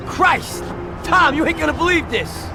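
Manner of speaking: very high, amazed exclamation; excited disbelief, voice shooting up; astonished. Acted. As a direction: cry out at an incredible find. Astonished discovery inside the box.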